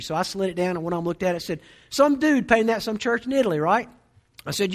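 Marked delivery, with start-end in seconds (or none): 1.9-3.9 higher, louder dude voice; slacker dude. Retold or imitated. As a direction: toss it out like a clueless dude. Voicing a dude on the lift.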